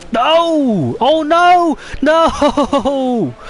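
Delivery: very high, loud cries of no; real despair, full voice; anguished shout. Real, not acted. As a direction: scream it as your driver crashes. Crash happens in the race.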